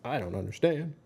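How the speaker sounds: confused yelp at the credits; retold disbelief.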